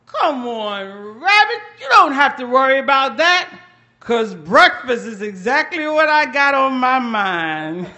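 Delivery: sly buzzard. Acted. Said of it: "And Buzzard said".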